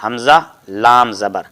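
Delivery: slowly spelled, each letter name drawn out; teacher slowing down to show حمزہ لام زبر; slow demo spelling. Shown as a demonstration. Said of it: "یعنی".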